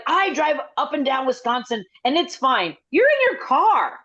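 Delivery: mock an indignant radio caller; imitated irate caller. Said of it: "he was screaming".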